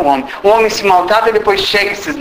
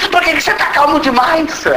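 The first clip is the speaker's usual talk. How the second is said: queixa rindo; 9 semitones higher than usual. Retold or imitated. Namorada reclamando rindo.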